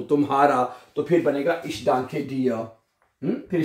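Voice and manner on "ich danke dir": very slow, quiet, word by word; slow informal model. Shown as a demonstration. Teacher showing the informal thanks to students, slow and soft. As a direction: model the casual version gently. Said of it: "informally कहना है".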